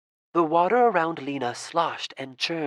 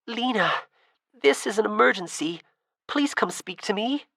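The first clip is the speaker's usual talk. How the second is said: higher, louder call to an unseen friend; 6 semitones higher than usual. Acted. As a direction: raise the voice and call across the pond. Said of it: "she tried in a louder voice".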